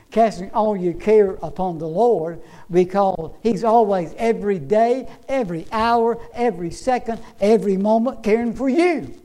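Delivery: rhythmic sermon build; insistent pulpit cadence; emphatic preaching. Real, not acted. Preaching builds through a list.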